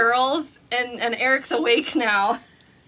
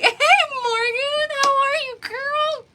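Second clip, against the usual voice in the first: laughing greeting; 13 semitones higher, slower than usual. Real, not acted. Greeting viewer while still laughing.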